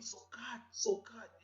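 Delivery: put-on high, pleading girlfriend voice; girlfriend calling. Girlfriend calling her man, high and pleading. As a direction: call his name up high, pleading. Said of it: "La go dit".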